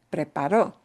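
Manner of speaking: preparó with the last o punched; stress on the o. Shown as a demonstration. Teacher showing the class where the stress falls in preparó. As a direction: hit the final o of preparó. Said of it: "punching the o at the end".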